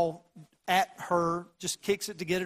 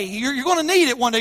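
emphatic warning; 6 semitones higher, 9 dB louder, faster than usual. Acted. Warning the church, repeated.

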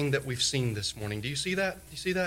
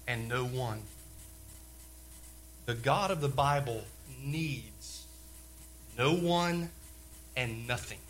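hushed preaching; 7 dB quieter, slower than usual. Acted. Hushed point on God's self-existence.

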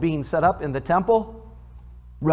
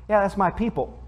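put-on Southern accent; 6 semitones higher than usual. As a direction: lightly imitate a Southern relative saying "my people". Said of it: "that's how they say that".

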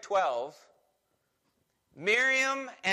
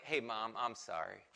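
softer, lower casual apology; offhand sorry; 8 semitones lower, 8 dB quieter than usual. Retold or imitated. Grown child offering mom a hollow sorry, softer. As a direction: toss off a cheap sorry. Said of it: "come to mom then later and go like".

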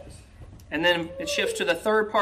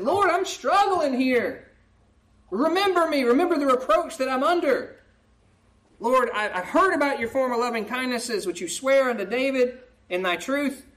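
struggling plea; 4 semitones higher than usual. Acted. Psalmist voiced struggling.

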